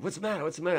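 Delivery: high, urgent imitation of concern; retold alarmed questioning. Bill to the man running into the studio, retold alarmed questioning. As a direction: act out a startled colleague asking.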